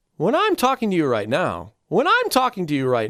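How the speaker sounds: dynamic, swooping, range-filled, sing-song delivery. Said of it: "even what I just said".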